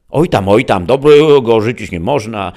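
put-on high, loud rustic old woman; dismissive granny. A narrator's reading. Grandma brushing off her granddaughter's objection, dismissive.

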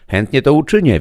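put-on high girlish reply; young girl. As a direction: answer the gentleman eagerly like a young girl.

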